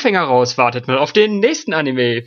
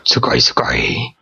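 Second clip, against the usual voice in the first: excited anime fan; 13 semitones lower, slower than usual. Pretend. Mock Japanese anime exclamations.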